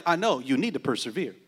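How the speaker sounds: low, unbothered voice of God; God's calm reply. Pretend. Pastor voicing God answering a believer, low and calm.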